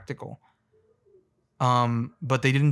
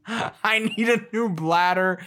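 mock patient; 7 semitones higher, slower than usual. Acted patient asking doctor.

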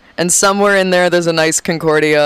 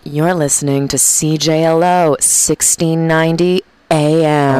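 imitating radio host. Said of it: "she would always go".

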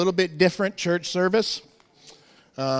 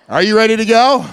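crowd call; 5 semitones higher, 9 dB louder than usual. Real, not acted. Asking crowd ready.

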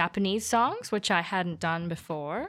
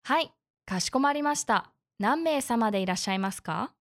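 customer service voice. Acted. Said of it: "I love your beautiful N H K Japanese".

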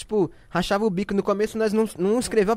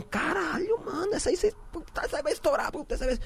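excited raving; 8 semitones higher, 9 dB quieter than usual. Retold or imitated. Everyone raving about the song.

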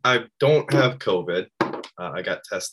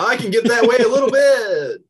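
much higher and louder, straining upward; elevated excited call; 12 semitones higher, 8 dB louder than usual. Pretend. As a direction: push the voice up high without cracking. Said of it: "get that elevated without it cracking".

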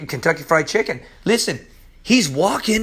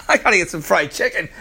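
joking craving; 3 semitones lower, faster than usual. Real, not acted. Playful craving outburst.

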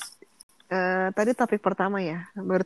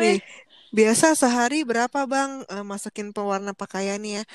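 disguised voice. Pretend. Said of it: "Kayak gitu kan suaranya kan".

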